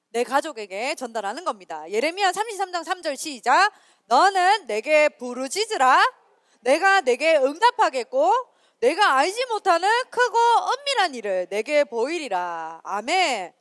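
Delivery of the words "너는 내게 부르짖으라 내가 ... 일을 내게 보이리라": scripture recitation. Acted. Reads Jeremiah aloud to group.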